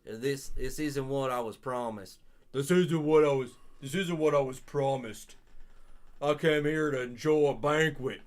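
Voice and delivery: put-on lightly done low Southern accent. Streamer voices the gourmet detective in a low Southern accent. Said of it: "It's like a low Southern voice".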